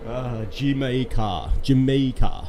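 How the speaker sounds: put-on Jamaica said as Jimmy Carr in a light Jamaican accent; slow, playful Jamaican-accented Jamaica; mock Jamaican accent. Vlogger joking to viewers, light Jamaican accent. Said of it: "with a Jamaican accent".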